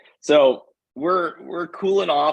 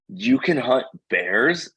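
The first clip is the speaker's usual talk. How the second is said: shocked question; slower than usual. Retold or imitated. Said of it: "She goes, gasps".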